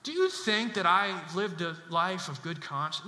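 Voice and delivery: mock approval-seeking question; hesitant, imitated plea for approval; unsure questioning. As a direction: ask as if needing their verdict. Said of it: "He doesn't ask a question".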